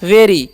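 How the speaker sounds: "वेरी" ending in a long ई; teacher's model of "वेरी"; demonstrated pronunciation. Shown as a demonstration. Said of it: "और वाई का दीर्घित हो गया".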